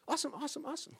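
lightly mimicking a breezy server; flippant awesome. Restaurant server answering a customer, a hint of chirpy flippancy. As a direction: toss off awesome, high and quick. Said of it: "they say".

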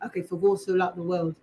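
low, soft try at an English accent. Shown as a demonstration. Practising accents alone on the road, English accent. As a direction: read it in a mild English accent. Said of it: "let's do it in English".

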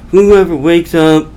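mildly exasperated mock rant; frustrated. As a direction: grumble as a fed-up salesman, lightly acted. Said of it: "frustrated with his day, and he's like".

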